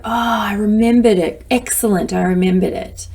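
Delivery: cheerful, pleased with herself; pleased self-praise. Retold or imitated. Speaker to herself at the door, cheerfully pleased. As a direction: praise yourself for remembering. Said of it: "I come in and go".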